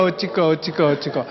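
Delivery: mock Jeolla worrier fretting over nothing. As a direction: mutter 어찌까 like a Jeolla worrier. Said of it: "전라도 말로 어찌까".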